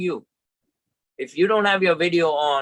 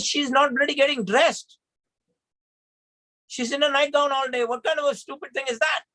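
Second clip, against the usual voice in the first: retold exasperation; 9 semitones higher than usual. Arguing with his sister.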